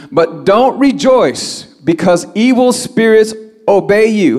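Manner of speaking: slow, high-pitched preaching caution; emphatic admonition. Acted. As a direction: caution them firmly, drawing out each phrase. Preacher voices Jesus' admonition.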